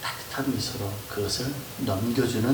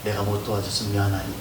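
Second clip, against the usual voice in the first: gentle understanding; 2 semitones lower than usual. Shown as a demonstration. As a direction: comfort them, soften after the sigh. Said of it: "얘기하는 게 아니라". (다정하게 위로하며)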